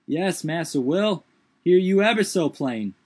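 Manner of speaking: high put-on dialect voice, startled; Jupiter's voice. A narrator's reading. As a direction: lift the voice high and protest.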